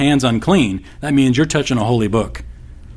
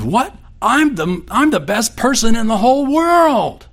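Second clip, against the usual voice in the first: retold drunk yelling; 10 semitones higher than usual. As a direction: belt it like a drunk boasting. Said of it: "he yelled at his wife".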